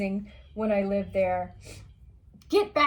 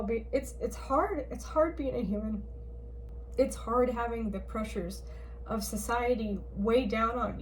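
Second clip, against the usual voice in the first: emotional; 3 dB quieter than usual. Real, not acted. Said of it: "I know I'm getting emotional now".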